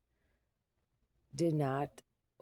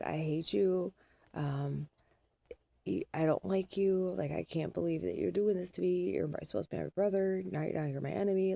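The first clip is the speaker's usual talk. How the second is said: higher, louder, hammed-up sibling fight; mock kid quarrel; 4 semitones higher, 3 dB louder than usual. Mom imitating her sons' late-night fight, mock angry. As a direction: play both brothers yelling insults, half-acted. Kids quarrel, retold at 1:30am.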